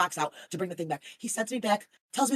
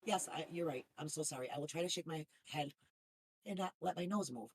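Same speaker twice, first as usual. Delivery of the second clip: soft, lower, meek sorry; mock apology; 4 semitones lower, 13 dB quieter than usual. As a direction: apologize in an exaggerated small voice.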